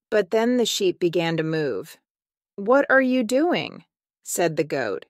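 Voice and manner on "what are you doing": high-pitched, alarmed question. A narrator's reading. Goat catches the sheep moving in the tree, alarmed. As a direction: demand an answer in mild alarm, pitched up.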